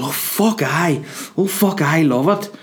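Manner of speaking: hammed-up eager taxi driver; overexcited driver. Sammy the driver keen on pints, hammed-up excitement. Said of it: "Like, so enthusiastic".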